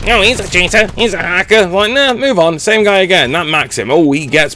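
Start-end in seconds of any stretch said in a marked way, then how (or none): 0.1-1.7 mock whiner. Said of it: "And I didn't go".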